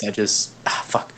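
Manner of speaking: hushed, strained curse; whisper yelling. Real, not acted. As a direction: yell it under your breath. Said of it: "Whisper yell".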